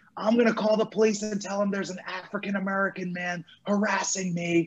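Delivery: restrained, high, mild half-scream. Retelling a dog owner yelling at a man recording her, imitating her screaming. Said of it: "And she's screaming".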